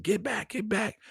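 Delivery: high-pitched warning without shouting; mock warning. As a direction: imitate a warning, pitch jumping up.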